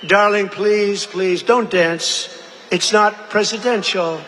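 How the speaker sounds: slow, pleading voice of the wife; a hint of an elegant wife pleading; wife's plea. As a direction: beg him gently, dragging each word. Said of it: "and she says".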